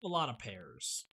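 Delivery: slow, falling, weighty. Real, not acted. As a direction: drag it out slowly. Repeats the phrase.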